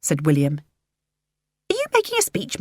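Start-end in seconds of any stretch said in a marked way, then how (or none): 1.7-2.6 surprised. A narrator's reading. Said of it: "Helena sounded surprised".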